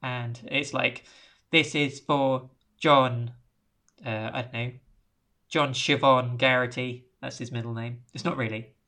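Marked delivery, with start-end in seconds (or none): 1.5-7.1 automated announcement. Retold or imitated. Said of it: "automated voice announcements".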